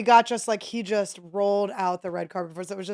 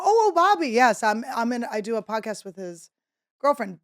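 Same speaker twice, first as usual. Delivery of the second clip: eager name drop; 2 semitones higher, 3 dB louder than usual. Retold or imitated. Retold eager pitch to the celebrity chef.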